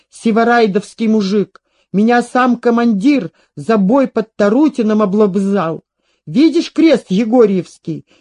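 lightly voiced, animated soldier telling his exploits; boastful old soldier. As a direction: boast with emphatic, rising fervour. (хвастливый старый солдат)

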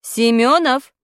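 loud call of Семёнов; called name. Acted. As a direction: snap out the surname. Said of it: "крикнула Нина Васильевна".

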